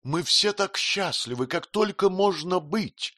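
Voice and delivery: a husband overflowing with delight; rapturous. A narrator's reading. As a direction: let the happiness burst out. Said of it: "с восторгом сказал Треддельс".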